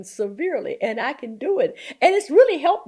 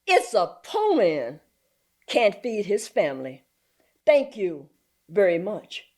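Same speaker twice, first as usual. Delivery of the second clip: mildly dismissive grandfather. Retold or imitated. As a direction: close the matter politely but firmly. Grandfather dismisses the social worker.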